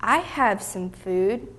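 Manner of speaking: slow, hesitant start after a gulp; mildly intimidated small boy; timid, halting. Acted. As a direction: get the words out nervously, with a pause. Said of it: "He gulped and finally got the words out".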